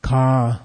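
low 'Ka' vibrating in the voice box. Shown as a demonstration. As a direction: let 'Ka' buzz low in the throat. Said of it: "It's vibrating here".

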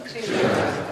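"Jika" with the tongue curled back; curled tongue heavy consonants. Shown as a demonstration. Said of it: "Curl your tongue back, retroflex your tongue".

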